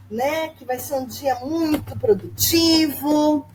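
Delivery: slow, cheerful exclaiming; teacher greeting the class, cheerfully exclaiming; exclamatory demo. Shown as a demonstration. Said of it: "Isso é frase exclamativa".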